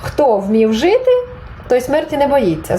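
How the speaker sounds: slow, measured teacher's model sentence; slow prompt, lifting on the second half; model for repeating. Shown as a demonstration. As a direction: say it slowly so learners can repeat. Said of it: "Спробуйте от зараз сказати".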